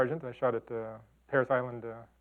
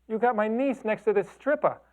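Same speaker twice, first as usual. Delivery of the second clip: high, loud and slow indignant accusation; angry aunt; 10 semitones higher, 4 dB louder than usual. Retold or imitated. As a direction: spell out the offense, outraged aunt. Aunt angrily calls about photo.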